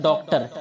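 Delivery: डॉक्टर with a rounded o and Hindi "tar"; another common pronunciation. Shown as a demonstration. Teacher quoting other people's doctor, another common pronunciation. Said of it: "कुछ कहते हैं".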